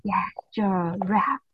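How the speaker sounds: whispered hint; breathy whispered prompt. Real, not acted. Teacher whispers hint to child.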